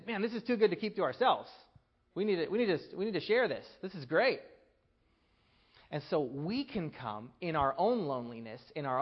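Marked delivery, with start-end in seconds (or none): 0.1-4.4 excited, high, loud voicing of joy; God's delight voiced. God imagined sharing his joy, excited and loud. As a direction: burst out with joy you can't contain. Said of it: "the feeling is".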